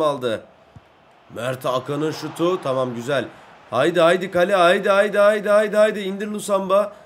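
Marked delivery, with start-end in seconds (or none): 3.7-6.9 loud, rapid chant of haydi; excited urging. Pretend. Player urging the attack toward goal, excited chant. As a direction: drive the ball on with repeated shouts.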